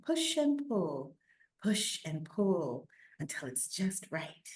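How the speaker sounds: put-on steady read-aloud for children; story reading. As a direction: tell the story to listening kids. Reads picture book aloud.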